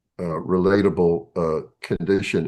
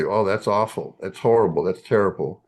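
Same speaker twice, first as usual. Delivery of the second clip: lightly sympathetic "that's horrible"; "that's horrible" in an understated, caring voice. Shown as a demonstration. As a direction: offer a plain "that's horrible" with gentle sympathy. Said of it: "in a tone of voice that reflects sympathy".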